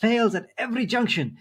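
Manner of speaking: lightly hammed-up, self-important put-down; appropriate commenter voice. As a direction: read it as an indignant commenter making a point. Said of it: "read it in the appropriate voice".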